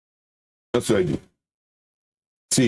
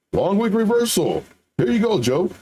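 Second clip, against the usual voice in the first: mocking mentor; 5 semitones higher than usual. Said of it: "My mentor teaches me this".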